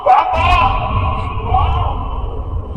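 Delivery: high, terrified cry for help; panicked high calling; desperate scream. Acted. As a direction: scream out for your parents, the last cry losing its voice. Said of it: "जोर से चीखने की कोशिश की".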